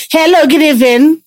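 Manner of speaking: high-pitched put-on greeting; imitated Chigel greeting. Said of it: "they expect me to be like".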